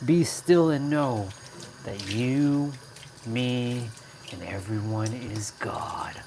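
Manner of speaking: slow, lightly solemn spiritual intoning; hint of a meditation teacher; mock guru voice. Streamer playing a mock guru for the live chat. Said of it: "I talk like that a lot".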